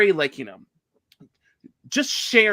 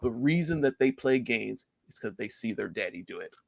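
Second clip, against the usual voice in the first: low, soft Russian accent attempt; quiet, half-hearted Russian imitation; bad Russian accent; 6 semitones lower, 6 dB quieter than usual. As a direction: drop lower into a rough Russian accent. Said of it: "my Russian accent is bad".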